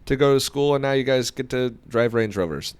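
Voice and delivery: slightly hammed-up back-in-my-day grumble, easing down; mock old-timer lament. Veteran detailer mocking hardship boasts to newcomers, old-timer lament. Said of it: "not to play the".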